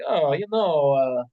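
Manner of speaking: lightly mimicked, halting actor voice; Jeff Goldblum. Co-host trying out a celebrity Slappy, light Goldblum impression. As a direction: drag the words out with stray uhs. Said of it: "to have a Jeff Goldblum Slappy".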